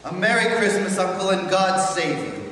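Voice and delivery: bright, loud holiday greeting; cheerful cry. Acted. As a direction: call out a merry greeting. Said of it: "cried a cheerful voice".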